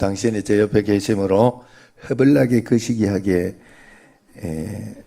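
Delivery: a light Jeolla dialect greeting, slowing at the end. Shown as a demonstration. Pastor shows the congregation a Jeolla dialect greeting, lightly voiced. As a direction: say it warmly in easygoing Jeolla dialect. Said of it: "자, 전라도 말로".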